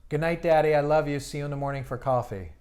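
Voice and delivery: lightly voiced young daughter saying goodnight; imitating his daughters. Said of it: "they're like".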